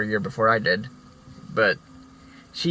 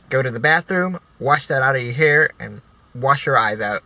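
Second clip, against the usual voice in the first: stern order; 2 semitones higher, 4 dB louder than usual. Retold or imitated. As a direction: bark the order like a strict teacher. Strict teacher orders him out.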